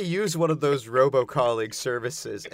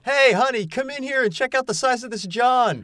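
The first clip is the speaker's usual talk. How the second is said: mock calling out; 12 semitones higher, 5 dB louder than usual.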